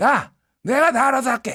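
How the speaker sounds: breezy, reassuring brush-off. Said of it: "윤석열의 스타일은".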